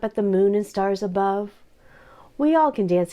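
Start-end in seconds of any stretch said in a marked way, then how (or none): 2.4-3.1 gentle wisdom. Acted. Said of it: "he said".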